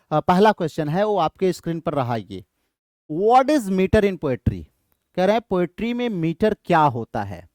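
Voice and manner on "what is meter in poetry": reads the question very slowly; slow reading. Shown as a demonstration. Teacher reading quiz question to class, very slowly. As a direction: spell it out word by word for students.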